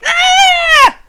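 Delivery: very high, very loud scream of fright; startled shriek. Acted. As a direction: shriek as birds land on you. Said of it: "And she's like".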